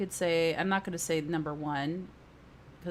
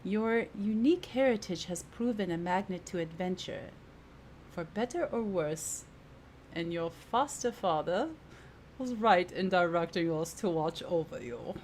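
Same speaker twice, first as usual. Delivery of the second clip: put-on wobbly British-Jamaican accent; British turning Jamaican accent. Companion speaking of your foster father, in wandering British-Jamaican accent. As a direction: attempt a formal accent sliding from British to Jamaican. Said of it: "Now British is turning Jamaican".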